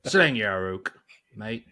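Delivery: lightly cockney Bob Hoskins growl; a touch of London geezer; cockney accent. Retold or imitated. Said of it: "just like Bob Hoskins".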